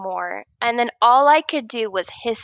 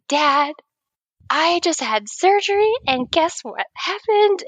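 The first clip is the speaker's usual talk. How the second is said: higher-pitched retold announcement to a parent; mock urgent phone call; 6 semitones higher than usual. Patient calling dad after surgery, mock urgent news. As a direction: act out breaking big news.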